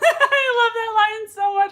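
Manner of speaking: breaks into real laughter on the line; laughing. Real, not acted. Host laughing at a chat comment she loves. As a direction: laugh it out while reading the comment.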